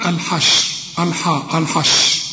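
الحشر and الحاء with dark, thick "awl-haw" vowels; wrong heavy article. Shown as a demonstration. Teacher showing a possible mistake, heavy vowels in الحشر. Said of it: "وده خطأ".

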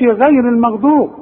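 غير المغضوب with a thin, fronted vowel after غ; wrongly thin Ghayn. Shown as a demonstration. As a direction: lighten the opening of غير. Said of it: "ما تقولش".

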